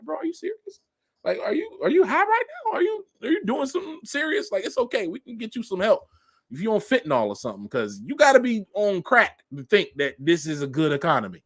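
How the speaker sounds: incredulous disbelief. Retold or imitated. Answering the friend who praises the economy, incredulous. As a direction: ask it like you can't believe your ears. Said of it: "I'm like".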